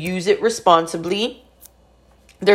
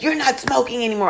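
brother blowing up; 6 semitones higher, 3 dB quieter, faster than usual. Retold or imitated. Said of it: "He, like, blew up".

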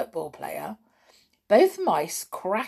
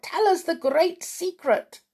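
impatient cry; 10 semitones higher than usual. A narrator's reading. Witches to their leader, impatient cry. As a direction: demand it now. Audience pleading.

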